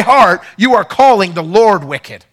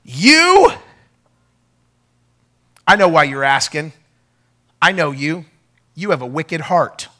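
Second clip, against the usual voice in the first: put-on sneering older brother; 6 semitones lower than usual. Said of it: "his brother looks at him and says".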